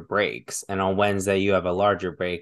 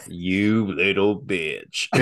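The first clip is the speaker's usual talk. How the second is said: slow, drawn-out Southern drawl; Southern accent; much slower than usual. Acted. Mocking a man for a masculine trait, Southern accent. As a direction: draw it out with Southern scorn. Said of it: "Everybody's Southern".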